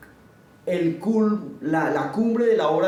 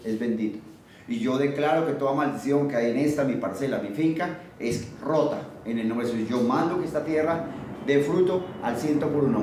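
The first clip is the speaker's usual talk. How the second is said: softer, lower praying voice; modeled prayer; 3 semitones lower, 3 dB quieter than usual. Shown as a demonstration. Preacher models a blessing over the farm, prayerful. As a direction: pray it quietly over your land.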